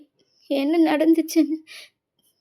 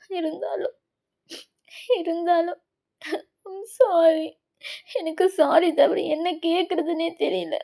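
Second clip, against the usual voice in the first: tearful whisper-soft sorry; 4 dB quieter than usual. Acted. Crying apology again.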